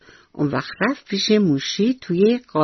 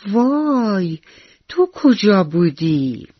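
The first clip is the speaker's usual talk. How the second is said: startled mouse; 2 semitones higher, much slower than usual. Acted. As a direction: jump back in surprise, then ask slowly. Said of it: "جیغ کشید و به آتیش گفت". (موش کوچولو که از آتش جا خورده)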